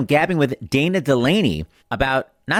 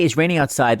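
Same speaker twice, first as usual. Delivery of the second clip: Mister Couture impression. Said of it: "had a very weird accent".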